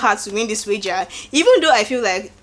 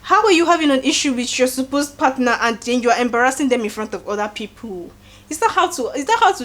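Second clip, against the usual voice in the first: mock angry shout, a bit higher; retold shouting; 4 semitones higher than usual. Shex shouting at Bella in the room, mock angry shout. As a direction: throw the accusation like a scolding. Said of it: "he's shouting at her".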